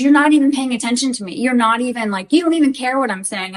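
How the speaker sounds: mildly imitated indignant complaint; livid retelling. Husband accuses wife of not listening, mildly livid. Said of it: "He was livid".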